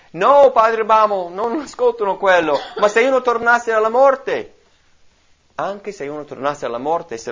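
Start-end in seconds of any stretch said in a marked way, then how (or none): 0.1-4.5 loud, high desperate objection; insist, raised and pleading; preacher voicing the rich man's last loud plea. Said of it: "esclamò".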